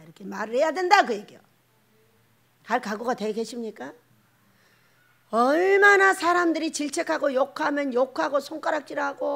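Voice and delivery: ordinary talk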